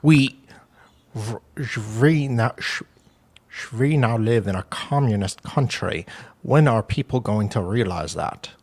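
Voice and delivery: halting, badly faked Russian voice; shaky attempt at a Russian accent. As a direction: try a Russian accent and fumble it. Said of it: "trying to do my Russian voice".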